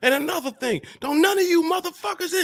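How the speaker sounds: put-on, very high-pitched, angry scolding tirade. Speaker recalls how their mom switched her phone voice on and off, imitating mom cursing out. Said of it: "My mom used to be cursing us out".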